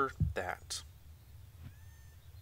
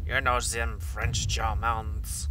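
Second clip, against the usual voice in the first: put-on muddled French-German accent, pushed louder; mock French accent; 5 dB louder, slower than usual. Gamer excusing his drifting accent, in mock French. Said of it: "I am very French".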